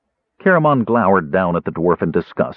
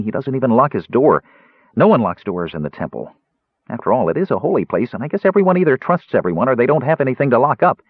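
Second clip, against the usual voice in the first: lightly voiced eager, higher Kender; chatty Kender; 4 semitones higher than usual. Tass explains unlocked temple doors to Caramon, chatty Kender.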